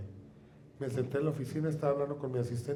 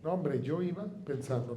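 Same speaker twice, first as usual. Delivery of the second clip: ordinary talk, nothing marked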